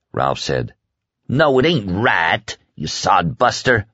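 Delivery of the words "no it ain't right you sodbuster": furious mimicry of an Oklahoma twang; mocking Oklahoma accent. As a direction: throw his Oklahoma accent back at him, angrily. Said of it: "said furiously, mimicking Ralph's flat Oklahoma accent".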